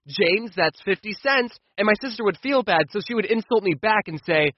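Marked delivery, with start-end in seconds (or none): 0.1-1.6 slow, deadpan "that's fifty cents"; a hint of a mother handing down a fine; lightly voiced mom. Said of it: "my mom would hear me and say".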